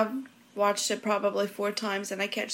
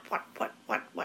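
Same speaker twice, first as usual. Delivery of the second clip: whispered; 7 dB quieter, faster than usual. Pretend. Whispered echo.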